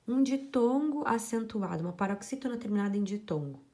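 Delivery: high and loud, like a heading; emphatic announcement. Shown as a demonstration. Teacher announcing the next rule to students, loud and high. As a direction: announce the new rule to the class. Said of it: "announcing the next rule".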